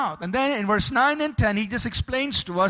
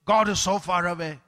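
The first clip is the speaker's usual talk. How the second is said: understated despair, pitched lower; mock despair; 4 semitones lower than usual. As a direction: lightly imitate someone who has given up on God. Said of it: "Don't speak despair".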